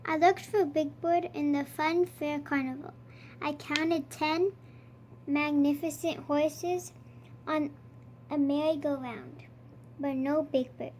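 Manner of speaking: lightly voiced Count reading a counting story; a hint of the vampire Count, savouring each number; storybook Count, counting with relish. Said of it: "I am the Count".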